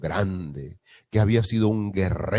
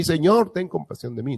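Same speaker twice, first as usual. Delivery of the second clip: imagined plea; 9 semitones higher, 3 dB louder than usual. Retold or imitated.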